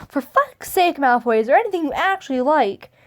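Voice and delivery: mock fed-up complaint; acted annoyance. Harry fed up with Draco's complaining, acted annoyance. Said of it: "annoyed, so annoyed when".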